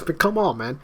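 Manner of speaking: high, laughing protest. Real, not acted. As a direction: laugh it off, exasperated.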